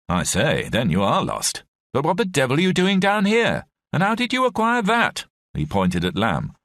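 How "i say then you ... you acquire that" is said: a Scottish officer rising high in disbelief; mildly startled officer, pitched up; lightly voiced officer questioning the lost soldiers; voiced officer, puzzled. A narrator's reading.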